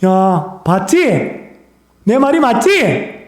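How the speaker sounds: a playful I-told-you-so from God, drawn out high; God gloating. Acted. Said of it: "하나님이 사탄에게 말합니다".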